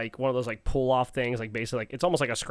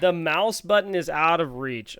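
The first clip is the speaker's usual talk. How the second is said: incredulous repeat; 5 semitones higher, 7 dB louder, slower than usual. Real, not acted. Incredulous repeat of partner's excuse.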